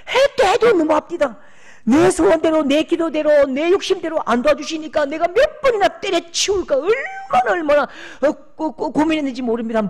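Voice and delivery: high and loud, pleading in distress; loud grieving outcry; anguished lament. Retold or imitated. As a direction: pour out the hurt, near tears. Retold pastor's anguished complaint.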